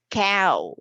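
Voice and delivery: "Cow" stretched, gliding between two vowels; drawn-out diphthong. Shown as a demonstration. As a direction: draw out both vowel sounds in "Cow". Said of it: "It's a combination of the vowel sound".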